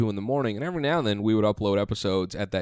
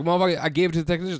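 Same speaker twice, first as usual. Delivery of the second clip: mock angry retort; 7 semitones higher, much faster than usual.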